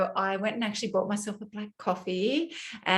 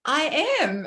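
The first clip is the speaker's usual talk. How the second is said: mock dramatic admission; 8 semitones higher than usual. Her own mock-dramatic reply.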